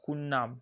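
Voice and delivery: "qul na'am" said as qun-na'am; L merged into N. Shown as a demonstration. Teacher repeating the mistake to avoid, "qul na'am" with L merged into N. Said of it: "insert the lam into nun".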